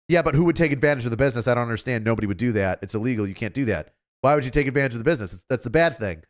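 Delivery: fast, bewildered string of objections; baffled German. Retold or imitated. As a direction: rattle off confused objections fast. German baffled in retold argument.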